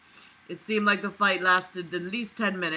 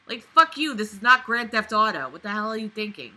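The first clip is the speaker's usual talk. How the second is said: mock anger at the hero; mocking outburst; 2 semitones higher than usual. Real, not acted. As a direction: tell the character off. Mocking the character.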